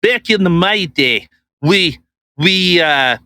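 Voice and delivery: badly faked European accent, closer to Italian; halting, hammed-up foreign accent; attempted foreign accent. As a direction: fumble through a mock European accent. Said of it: "let me try and talk like her".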